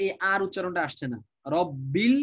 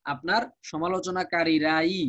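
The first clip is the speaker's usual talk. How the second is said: slow সমালোচনাকারীরাই with the final ই leaned on; emphatic ending; slower than usual. Shown as a demonstration. Teacher stressing the emphatic ই in the translation. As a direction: drag out আপনার সমালোচনাকারীরাই and press the closing ই. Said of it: "একটা ই দিয়ে যে একটা তাকিদ দেওয়া হয়".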